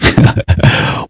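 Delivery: quiet, breathy chuckle with no voice; short laugh. Real, not acted. Debater answering an accusation of misreading, soft laugh. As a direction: let out a soft, brief laugh.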